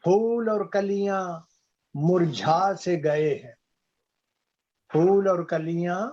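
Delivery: measured Urdu couplet reading; ghazal recitation. Acted. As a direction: recite the verse with drawn words and pauses. (शायरी पढ़ने का अंदाज़)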